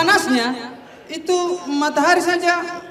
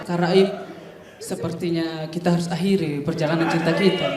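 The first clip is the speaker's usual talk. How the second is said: put-on girlfriend breaking up; 8 semitones lower, 3 dB quieter than usual. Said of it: "dia bilang sama saya kayak".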